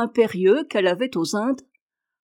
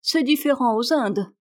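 disdainful; 4 semitones higher than usual. Acted. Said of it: "dit Marie avec dédain".

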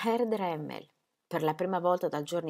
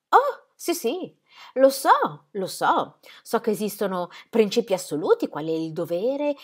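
voce femminile più acuta e agitata; Ingeborg implorante; 3 semitones higher, 6 dB louder than usual. Acted. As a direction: moglie che supplica con ansia. (voce alta e implorante di Ingeborg)

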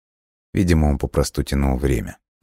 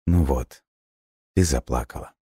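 guilty; 4 dB quieter than usual. A narrator's reading. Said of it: "виновато произнёс он".

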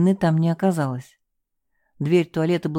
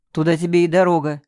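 heartless retort; 4 dB louder than usual. Acted. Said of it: "бессердечно ответствовал Тимур".

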